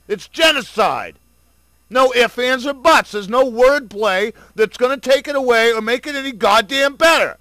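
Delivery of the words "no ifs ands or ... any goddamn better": building shout. Real, not acted. Rant building to climax.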